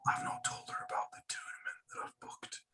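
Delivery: secretive, hushed whisper. Pretend. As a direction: whisper it so she can't overhear. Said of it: "I don't know why I'm whispering".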